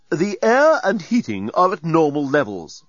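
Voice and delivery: announcing robot. Acted. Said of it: "announced the doorbot".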